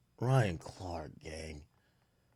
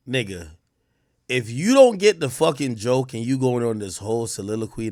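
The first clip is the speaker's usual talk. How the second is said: normal talking voice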